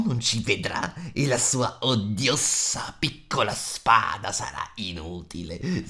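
slow, drawn-out creature voice, scheming to itself; sussurro malvagio. A narrator's reading. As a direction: relish each word in a creepy hiss. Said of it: "sussurrò tra sé e sé". (voce strisciante e malvagia, lenta, tra sé e sé)

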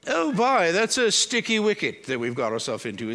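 a hint of a posh English accent for fun. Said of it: "it came to me in my head in an English accent".

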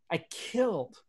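normal talking voice

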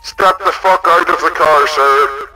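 loud barking police command; shouted order. Acted. Cop yelling at a driver to get out, loud. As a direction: yell it at the suspect like an angry cop.

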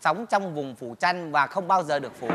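low, flat recorded-message voice; rude operator recording. Acted. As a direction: read it like a snide automated switchboard message. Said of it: "cái bà tổng đài bà ăn nói kỳ". (giọng tổng đài trả lời tự động cộc lốc)

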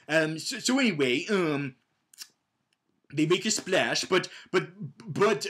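usual speaking voice

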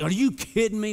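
can't believe how good this feels; amazed disbelief. Retold or imitated. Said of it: "I'm like".

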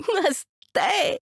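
put-on high, slow, delighted kid's voice; a kid savouring his treat; happy boy. Boy tells the man the ice cream is great, high and delighted.

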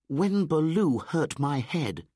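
put-on high, loud excited boy; Mowgli. A narrator's reading. Mowgli tells Baloo about the monkeys, high and loud. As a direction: tell it like an eager indignant child.

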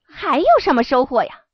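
eager and quick; excited question. Acted. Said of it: "小犬春浪激动地问".

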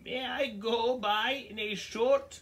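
high, slow timid goat; tiny goat voice. Acted. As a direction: ask politely, small and nervous. Tiny goat asks troll.

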